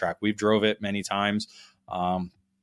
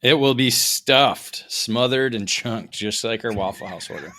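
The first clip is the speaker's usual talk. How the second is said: punchy and giddy from no sleep; tired and slaphappy; sleep deprived; 4 dB louder than usual. Real, not acted. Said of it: "I'm sleep deprived right now".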